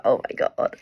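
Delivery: breathy, almost voiceless mock astonishment; low, airy imitation of being taken aback; startled aside. Telling viewers about three three three on the clock, startled.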